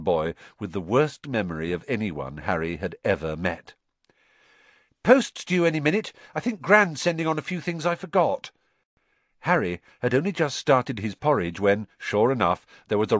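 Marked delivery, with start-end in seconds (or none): 5.0-8.5 cheerful. A narrator's reading. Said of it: "greeted them cheerfully".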